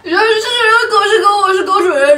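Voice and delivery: fast, high words through laughter; laughing while talking. Real, not acted. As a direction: rush it out, cracking up.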